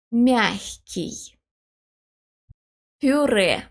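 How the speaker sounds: "Мягкий" with soft м and к, "Пюре" with a soft п; both words said slowly, consonants palatalized. Shown as a demonstration. Teacher models the soft-consonant examples for learners. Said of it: "become soft".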